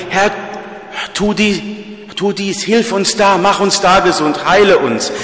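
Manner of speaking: imitated pleading prayer. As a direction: voice the needy prayer as a half-mocking beg. Voicing the congregation's pleading prayer.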